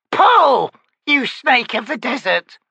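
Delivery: high, loud crone yelling; shrill command. Acted. Old witch ordering the wizard to pull the door, loud high yell. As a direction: bark the order like a cranky crone.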